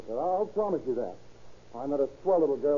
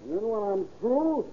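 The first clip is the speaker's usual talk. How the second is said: higher, taunting threat; menacing threat; 4 semitones higher than usual. Acted. Drunk husband taunts the lodger before a beating, menacing. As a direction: taunt him before the fight.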